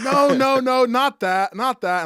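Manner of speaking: insistent denial. Retold or imitated. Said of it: "And she went".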